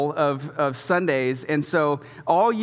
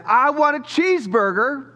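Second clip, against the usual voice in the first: put-on high little boy voice, bright and eager; lightly voiced small boy; child voice; 9 semitones higher, 4 dB louder than usual. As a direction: play the little son asking for his order.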